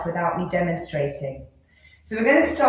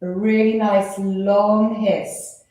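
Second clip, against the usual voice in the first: slow long hiss; 3 semitones lower, slower than usual. Shown as a demonstration. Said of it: "hiss like a snake".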